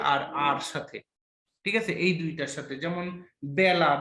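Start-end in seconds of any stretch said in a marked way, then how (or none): 3.6-3.9 বেলা said "byaela", first vowel as in "cat"; বেলা with a wide "ae" in the first syllable; open æ vowel. Shown as a demonstration. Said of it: "বজাফলা আকার লয়াকার বেলা".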